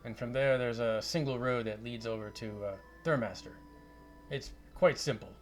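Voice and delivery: lightly voiced Scottish wizard; Scottish accent. Wizard gives adventurers directions, light Scottish accent. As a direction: give directions with a hint of Scottish. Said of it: "a Scottish accent".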